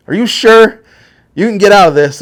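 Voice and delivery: put-on high and loud, fretting old grandma; worried grandma. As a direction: squeal it like an anxious grandmother. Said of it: "Grandma's like".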